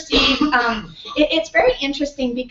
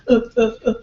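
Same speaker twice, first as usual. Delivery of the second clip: short gorilla uh grunts; much faster than usual. Shown as a demonstration. Teacher showing the class the gorilla uh sound, grunting. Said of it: "the sound that a gorilla makes".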